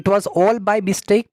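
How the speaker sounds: very slow, careful teacher read; slow model phrase. Shown as a demonstration. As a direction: spell it out slowly for the class. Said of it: "इस तरीके से आप कह सकते हैं". (धीमा, साफ़ उच्चारण)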